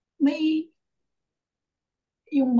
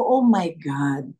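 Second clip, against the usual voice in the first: amazed; 2 semitones lower, slower than usual. Retold or imitated. Amazed exclamation, slowed.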